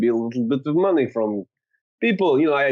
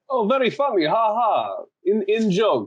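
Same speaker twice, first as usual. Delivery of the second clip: high, mocking fake laugh; sarcastic; 3 semitones higher than usual. Player mocking the group's in-joke, sarcastic. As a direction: sneer at their joke.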